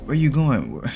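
acted upset mother, pitch climbing; sad pleading. A narrator's reading. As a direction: beg them not to leave, voice lifted. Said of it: "she said sadly".

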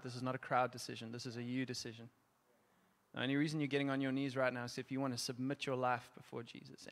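quiet, gentle ministry voice, encouraging those kneeling; soft altar call. Real, not acted. Preacher softly inviting the congregation to kneel, in a hushed ministry voice.

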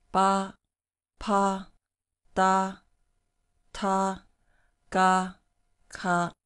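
ba, pa, da, ta, ga, ka crisply contrasted; clear initials. Shown as a demonstration. Teacher demonstrates initials for students. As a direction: sound each initial cleanly. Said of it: "here we have".

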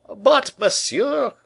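high, loud protest; vexed cry. A narrator's reading. Vexed painter objects to Monsieur, crying out. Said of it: "cried the vexed painter".

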